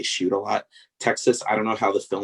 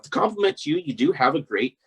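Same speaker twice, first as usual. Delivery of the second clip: radio voice; 8 semitones higher than usual. Shown as a demonstration. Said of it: "As I said that, in a radio voice".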